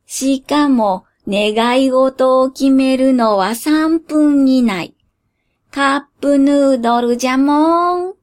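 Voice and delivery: lightly voiced creaky old genie; slow, sly old man genie.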